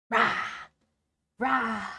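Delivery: playful T-Rex rawr; dinosaur roar. Pretend. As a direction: growl it like a little T-Rex. Playing T-Rex avatar roaring.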